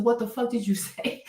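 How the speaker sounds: incredulous question breaking into a laugh; reacting to the song lyric, laughing; laughing disbelief. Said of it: "I said".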